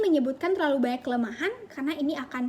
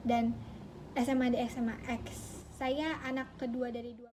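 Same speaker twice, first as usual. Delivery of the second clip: slow, softer recited self-introduction; long-winded candidate; 6 dB quieter than usual. Acted. Candidate over-explaining their background to an interviewer, slow and long-winded. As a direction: drag it out quietly, item by item. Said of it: "terlalu bertele-tele".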